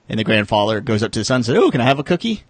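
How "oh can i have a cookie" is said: grandpa's plea. Retold or imitated. Grandpa voiced begging cookie.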